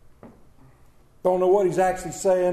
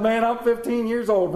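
fast, raised retelling full of eagerness; excited teenager recalled; 4 semitones higher, 4 dB louder than usual. Retold or imitated. Man recalling his learner's permit rush, excited. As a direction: rush it out like a thrilled fifteen-year-old. Reliving excitement at turning fifteen.

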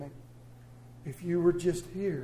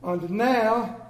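pastor pausing; 4 semitones higher, 7 dB louder than usual. Retold or imitated. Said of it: "and he says".

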